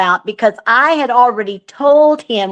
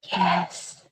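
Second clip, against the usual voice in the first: spirit box voice; 11 dB quieter than usual. Retold or imitated. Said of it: "you hear this man say".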